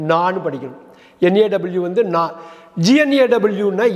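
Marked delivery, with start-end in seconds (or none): 0.1-0.4 நான்னு with no "g" sound, just "naa"; silent g. Shown as a demonstration. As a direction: drop the g and say நான்னு as "naw". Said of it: "அந்த ஜியை cut பண்ணிடுங்க".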